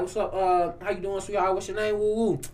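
soft, understated pickup patter; smooth-talking suitor. Retold or imitated. Man approaching a Chicago girl, lightly voiced suitor. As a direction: imitate a guy casually chatting her up, quietly. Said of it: "walk up to a Chicago girl".

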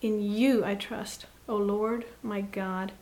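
steady, gentler prayer of faith; trusting prayer. Acted.

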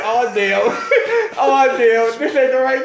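mock dismay. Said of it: "I said".

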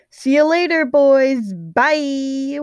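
high, loud, singsong farewell; called-out goodbye. A narrator's reading. Patton leaves the boys, calling a high goodbye. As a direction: sing out a goodbye with a stretched ending.

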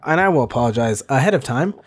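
slightly rushed delivery; quick, out-of-practice podcast patter; talking fast. Real, not acted. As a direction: say it a little too quickly. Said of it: "talking a little fast".

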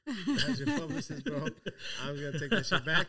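mock publicist voice, laughing through it; joking publicist, half laughing.

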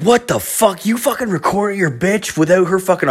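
high-pitched retold outrage; shocked disbelief. Friend reacting to a hidden recording, shocked disbelief. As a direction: play the friend aghast, pitched well up.

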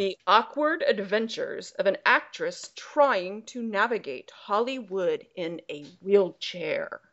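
slow, dramatic announcer voice; really cool voice. Acted. Host reads a quiz log line, slow cool announcer voice. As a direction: put on a throat-straining trailer voice, drawn out. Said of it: "do my really cool voice".

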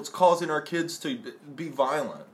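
hammed-up pearl-clutching parent; loud, preachy, mocking outrage. Mocking anti-game moral panic.

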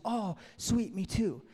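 high-pitched happy recognition; light up at finding common ground; delighted agreement. Acted. Rescuer finds a fellow Southern Baptist, delighted agreement. Joke character delighted at a match.

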